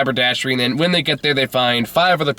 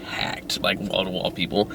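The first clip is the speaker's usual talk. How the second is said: much softer, breathy emphatic aside; hushed emphasis; 5 semitones lower, 9 dB quieter than usual. Real, not acted. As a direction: lean in and stress how packed it was. Emphasising how packed theater was.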